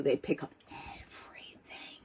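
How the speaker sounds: hushed unvoiced whisper on everything. Real, not acted. Telling the listener kids catch everything, whispered. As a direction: drop to a secret whisper.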